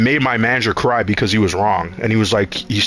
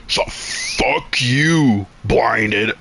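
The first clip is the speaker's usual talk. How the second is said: put-on drunk slur; much slower than usual. Drunk guy confronting him.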